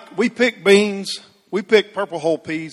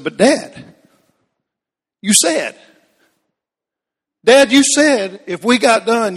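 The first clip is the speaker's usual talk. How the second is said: put-on pleading boy; 5 semitones higher, 4 dB louder than usual.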